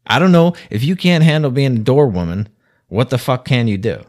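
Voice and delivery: loud exasperated rant; ranting outburst. Real, not acted. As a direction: throw the question up in disbelief. Ranting, voice jumps up.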